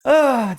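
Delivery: exasperated "ah", pitched high; loud, high groan of annoyance; annoyed groan. Real, not acted. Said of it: "this guy's annoying me".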